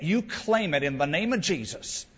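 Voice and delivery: mock Southern preacher accent. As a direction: claim it with a put-on Southern twang. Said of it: "if you use a southern accent".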